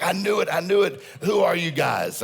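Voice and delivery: high, loud mock fan squeal; excited fans. Restaurant diners gushing at the tour bus guys, excited squeal. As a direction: gush like starstruck fans at a diner.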